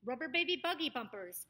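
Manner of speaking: put-on BABY BUGGY BUMPERS with bouncing B's; popping B's. Shown as a demonstration. Coach repeats one for the B's, BUMPERS crisply said. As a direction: pop the B at the start of each word in BABY BUGGY BUMPERS. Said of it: "a good one for the bees".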